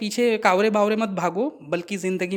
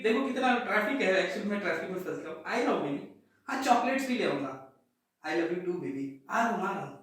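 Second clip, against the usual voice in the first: much softer, secretive sweet talk on the phone; quiet lover's excuses on the phone; hushed phone call; 9 dB quieter than usual. Pretend. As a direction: sneakily reassure the new girlfriend on a call.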